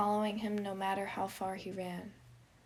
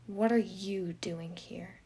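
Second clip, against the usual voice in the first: guarded question; 4 dB louder, slower than usual. Acted. Virgil surprised, guarded.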